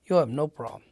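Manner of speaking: easy, unworried reassurance; retold nonchalance. Boss waving away a Marine's doubts, nonchalant. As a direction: toss it off as no big deal. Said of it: "he's just nonchalant".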